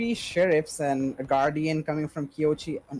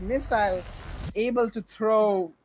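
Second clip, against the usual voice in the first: excited esports caster; 2 semitones higher, slower than usual. Real, not acted. Caster reacts to wild play.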